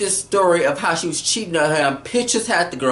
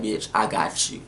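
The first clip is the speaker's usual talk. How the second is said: sneaky gloating; 10 semitones lower, 6 dB quieter than usual. Retold or imitated. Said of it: "she get that sneaky".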